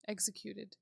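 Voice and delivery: ordinary delivery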